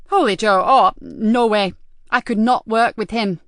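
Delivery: loud, appalled outburst at the news; loud protest. Acted. Nikki rejects the new partner.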